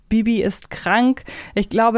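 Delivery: ordinary talk, nothing marked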